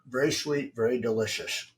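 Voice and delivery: talking while crunching an apple. Real, not acted. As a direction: mouth full, chewing. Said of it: "Can you hear me crunching?".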